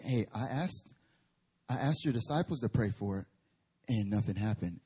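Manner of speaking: lightly voiced hushed father; quiet father. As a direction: mutter the complaint softly.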